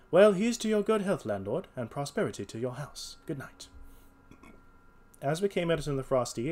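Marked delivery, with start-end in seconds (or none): 0.1-3.7 high, loud opening easing down; hearty detective's toast. Acted. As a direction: toast the landlord, then settle into goodnight. Holmes toasts the landlord.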